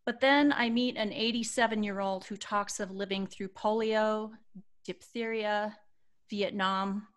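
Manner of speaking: measured reading with reflective pauses; sincere storytelling delivery; heartfelt read-aloud. Acted. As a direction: read a moving post aloud, phrase by phrase. Reads aloud someone's posted reflection.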